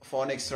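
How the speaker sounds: "phonics" with a long O, FOH-nix; old pronunciation. Shown as a demonstration. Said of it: "we used to pronounce it".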